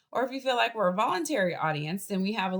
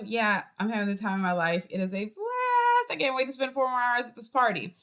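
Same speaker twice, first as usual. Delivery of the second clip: sincere enthusiasm; 3 semitones higher than usual. Shown as a demonstration. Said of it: "you can say exactly the same thing".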